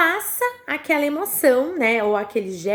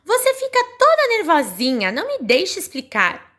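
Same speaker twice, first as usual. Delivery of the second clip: voicing Telim again; 5 semitones higher than usual. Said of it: "e eu vou reler, vejam bem".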